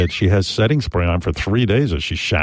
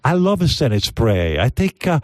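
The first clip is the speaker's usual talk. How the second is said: higher, lilting ladyboy impression; mock ladyboy; 5 semitones higher than usual. Host plays ladyboy pushing setting spray, mock girl voice. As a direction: put on a ladyboy's accented girl voice.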